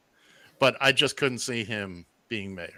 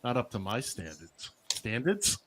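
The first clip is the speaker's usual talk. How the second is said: Long Island accent; 3 semitones lower, 10 dB quieter than usual. Real, not acted. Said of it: "Right out of Long Island".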